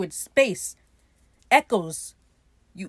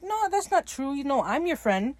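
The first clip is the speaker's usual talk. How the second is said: earnest protest; 6 semitones higher than usual. Retold or imitated. Steed protests Ed has friends.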